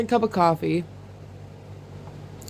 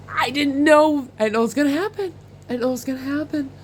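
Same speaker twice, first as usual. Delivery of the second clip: breathless disbelief; 6 semitones higher, faster than usual. Retold or imitated. Retelling her disbelief.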